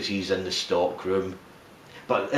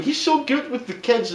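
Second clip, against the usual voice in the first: higher, cooing mum voice; lightly voiced doting mother; 13 semitones higher than usual. Mother watching Santa with kids, lightly voiced, higher. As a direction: coo it like an oblivious proud mother. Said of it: "the mother's going".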